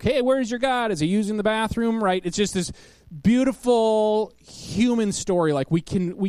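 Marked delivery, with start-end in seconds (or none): 0.0-2.0 teasing, lightly raised taunt; a hint of playful mockery; mocking joke. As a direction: needle the rival prophets with a grin. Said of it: "makes the funny joke".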